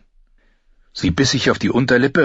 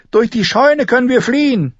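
high, urgent shouted plan; calling out; 4 dB louder than usual. A narrator's reading. Arya telling Gendry the escape route, shouting. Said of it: "rief sie".

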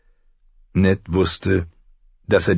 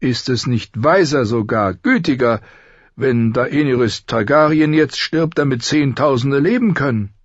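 put-on old maester; 7 semitones higher than usual. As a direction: speak like a weary ancient maester. Pycelle pleads for the killing. (alter Großmeister, höher)

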